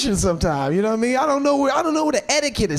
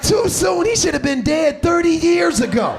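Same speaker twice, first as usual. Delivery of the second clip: hammed-up outraged reply; mock indignant rant; 3 semitones higher than usual. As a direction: rant back in disbelief. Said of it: "I'm like".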